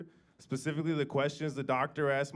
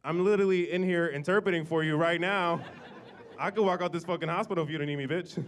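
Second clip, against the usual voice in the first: louder, indignant rant at mom; pissed off; 3 semitones higher, 4 dB louder than usual. Retold or imitated. Son chewing out his mom in the hospital, indignant rant. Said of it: "I was like".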